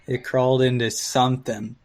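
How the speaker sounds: ordinary delivery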